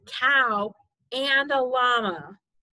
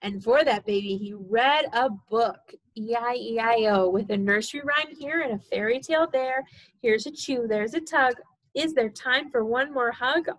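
sing-song storybook reading; reading to a toddler. Acted. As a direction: read it bouncy for a baby. Sing-song reading, snoring end.

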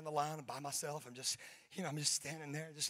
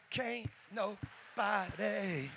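white people version; 3 semitones higher, 7 dB louder, much slower than usual. Retold or imitated. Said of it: "White people".

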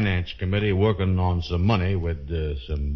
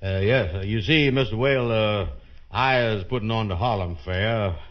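higher, halting, full of uhs; nervous pitch; 4 semitones higher than usual. Acted. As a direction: pitch your plan timidly to an important man. Nervously pitches his fair to official.

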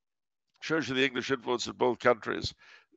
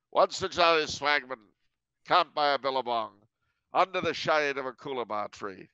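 put-on a clumsy, raised-pitch stab at an Australian accent; bad Australian accent; 3 semitones higher than usual. Explaining the swagman to the host in a bad Australian accent. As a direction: hams up an Australian bush-ballad accent and admits it's terrible. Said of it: "That's a terrible Australian accent".

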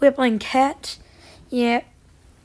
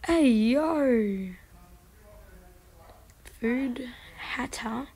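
ordinary talk

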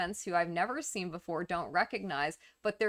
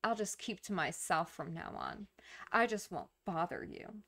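cold and aloof. Acted. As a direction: act mildly hurt and shut them out. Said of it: "act very cold and aloof".

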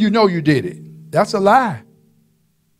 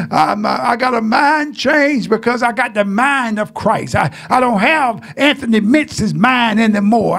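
preaching shout. Real, not acted. Preaching climax.

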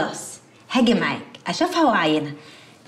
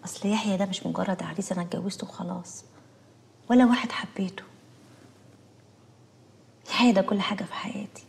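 tender whisper; 4 dB quieter than usual. Acted. Wife pours out love for husband.

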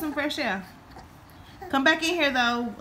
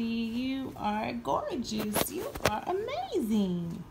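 slow tender praise; 4 dB quieter, slower than usual. Real, not acted. Cooing at the pet.

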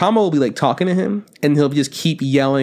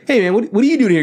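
higher mock challenge; guard challenge; 8 semitones higher, faster than usual. Another guard stops the sidekick, high mock challenge. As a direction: call out the stranger.

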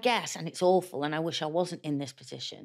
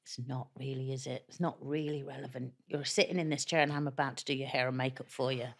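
makeup artist voice; 4 semitones lower, 5 dB quieter than usual. Retold or imitated. Voicing makeup artist Lee's reply.

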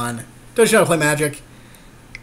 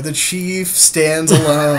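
slow, laughing movie-trailer line; laughing epic line; 4 dB louder, much slower than usual. Real, not acted. Player laughs through a dramatic tagline for the card, slow. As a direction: drawl it like an epic tagline, giggling.

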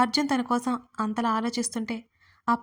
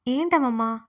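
louder annoyed reply from the room; a touch of impatience toward grandma; irritated; 5 dB louder than usual. Acted. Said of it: "గదిలో నుంచి అంది విసుగ్గా".

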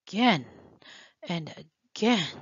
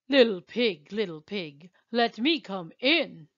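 big bad wolf; 2 semitones lower, 6 dB louder than usual. Wolf calls at pig's door.

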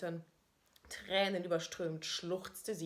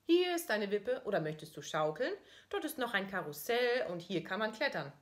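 higher, louder surprised question; mother asking; 4 semitones higher, 6 dB louder than usual. Retold or imitated. Mother answering her son, higher and louder. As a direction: ask it like a bright playground mum. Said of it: "antwortet die Mama".

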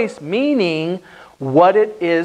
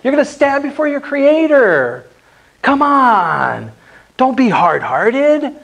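apologetic plea; 6 semitones higher than usual. Shown as a demonstration. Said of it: "You say that apologetically".

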